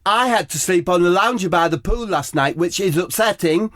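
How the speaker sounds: high, sing-song posh whine; high Harry Kane voice. Acted.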